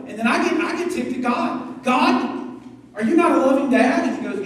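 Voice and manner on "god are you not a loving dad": louder, a mock-offended child protesting to God; indignant complaint to God. Pastor voicing himself ticked at God, mock-indignant. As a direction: whine at God like a sulky kid.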